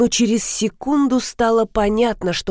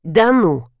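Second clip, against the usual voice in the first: mocking; 3 semitones lower than usual. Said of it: "с издёвкой осведомился супруг".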